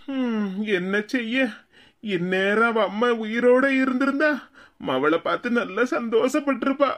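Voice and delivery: heavy, halting sorrow with long pauses; tearful lament. Acted. Father mourns his late wife before his daughter, tearful lament. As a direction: sigh into it and grieve haltingly. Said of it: "இப்படி அழுதுகிட்டு இருக்கீங்க".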